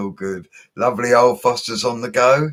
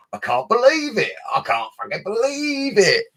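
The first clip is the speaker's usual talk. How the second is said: excited; 13 semitones higher than usual. Real, not acted. Viewers from the USA.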